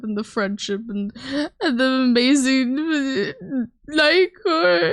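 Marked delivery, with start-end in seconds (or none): 1.6-4.9 gushing mock excitement. Mock fanfare for Nightcore.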